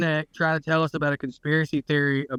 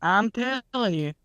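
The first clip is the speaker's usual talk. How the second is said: higher, drawn-out retold insistence; matter-of-fact; 6 semitones higher, slower than usual. Redneck assuring his doubting buddy, matter-of-fact. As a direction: stretch it out like a sure-of-himself redneck. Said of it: "he said it so matter of factly".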